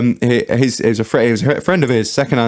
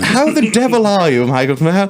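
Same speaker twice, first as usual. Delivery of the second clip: higher, slow plummy aristocrat; hammed-up posh toff; 9 semitones higher than usual. Host answers his friend's toff act in kind. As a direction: drawl it like a lord greeting a friend.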